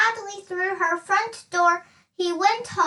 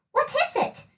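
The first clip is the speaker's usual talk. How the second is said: amazed question; 8 semitones higher than usual. A narrator's reading. Amazed at the box.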